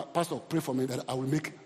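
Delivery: soft, low pleading church member; hushed worried request; meek plea. Retold or imitated. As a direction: beg the pastor timidly. Congregant's plea voiced by preacher.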